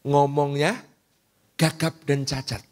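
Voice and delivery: ordinary talk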